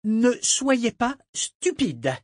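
high, furious, word by word; spitting each word. A narrator's reading. Malta facing the captain's sarcasm, scornfully detaching each word. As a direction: spit it out slowly, every word detached. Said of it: "cracha en détachant chaque mot".

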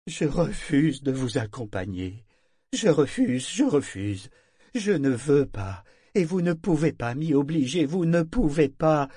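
refusal building from firm to high, slow screamed threats; growing fury. Acted. Parangon refuses to go, building to screaming threats. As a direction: climb from refusal to murderous screaming.

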